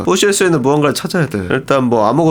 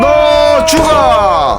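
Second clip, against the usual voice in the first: long, high, drawn-out yell; mock-furious shout; 7 semitones higher, 4 dB louder, much slower than usual. Gamer threatening the crab boss, mock-furious shout. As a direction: drag out a hammed-up death threat.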